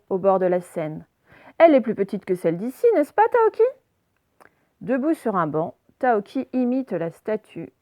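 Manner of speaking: put-on clear, measured read-aloud for young pupils; story reading for children. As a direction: read the storybook with careful, lively intonation.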